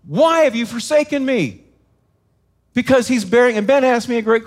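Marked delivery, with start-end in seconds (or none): 0.1-1.6 higher, mildly anguished retold cry; a preacher's restrained imitation of crying out. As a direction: call up to God, raised pitch but not shouted. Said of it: "he's crying out something".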